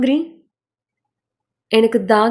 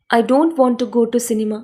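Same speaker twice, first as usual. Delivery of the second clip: slow, careful English sentence; slow model read; much slower than usual. Shown as a demonstration. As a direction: read it slowly for learners to copy. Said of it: "English model sentence, slow read".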